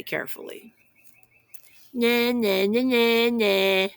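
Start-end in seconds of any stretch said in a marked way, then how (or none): 1.9-3.9 a touch of a snooty bird voice; snorting bird. Acted. Flugel bird taunting the squirrels, lightly voiced snort. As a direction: snort out the teasing na-nas lightly. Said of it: "snorted the flugel bird".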